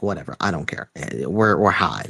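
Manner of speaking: low, dismissive mock shrug; shrugging it off. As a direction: voice someone brushing off a bad feeling. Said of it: "he kinda shakes it off".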